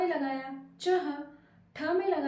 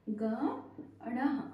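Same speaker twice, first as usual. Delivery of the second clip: syllable by syllable; 3 semitones lower, 3 dB quieter, much slower than usual. Shown as a demonstration. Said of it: "अब हम इसको मिलाकर क्या लिखेंगे".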